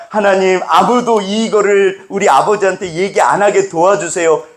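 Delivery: high-pitched, hurried-sounding plea; boy's anxious prayer. Acted. Boy praying nobody tells his father, high pleading prayer. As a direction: pray like a child hoping to escape blame. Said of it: "기도한다".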